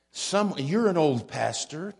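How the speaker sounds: put-on "old" leaned on lightly in a teasing quote; "you're an old pastor" with a gentle push on "old"; stress on OLD. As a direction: tease him by pressing the word "old". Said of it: "emphasis on the word old".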